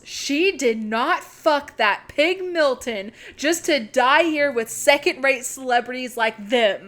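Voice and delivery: punchy, emphatic mock outburst; retold angry yell. Angelina refusing to die with second-rate celebrities, retold yell. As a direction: hit each word in mock outrage. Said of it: "Angelina stops dead in her tracks and yells".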